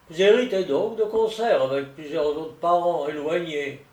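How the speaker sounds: lightly voiced, emphatic solicitor; solicitor explaining. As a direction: lay out the family tree name by name. (solliciteur qui expose, légèrement joué)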